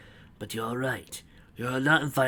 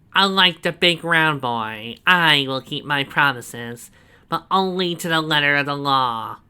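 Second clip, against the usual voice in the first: loud, high, slow gloating; proud villain boast; 4 semitones higher, 9 dB louder, slower than usual. A narrator's reading. Snively proudly showing Donovan the cell, loud and slow. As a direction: savour every word of the boast.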